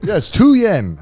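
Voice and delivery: put-on high-pitched old taxi driver; imitating old driver. Old taxi driver confirming the fare, high imitation. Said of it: "The old man in this taxi".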